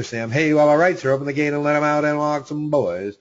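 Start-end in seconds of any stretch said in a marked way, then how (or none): 1.1-3.2 rapid auction chant, lightly voiced; auctioneer. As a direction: call the numbers like an auctioneer. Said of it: "I feel like an auctioneer".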